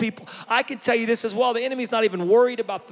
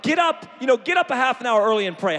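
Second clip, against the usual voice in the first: urging shout; 4 semitones higher than usual. Retold or imitated. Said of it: "I'm like".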